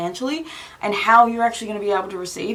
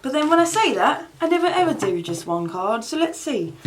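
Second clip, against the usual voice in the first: normal talking voice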